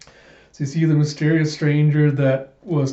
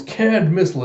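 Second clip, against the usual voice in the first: attack callout; 5 semitones higher, 4 dB louder than usual. Acted. Fighter names his attack.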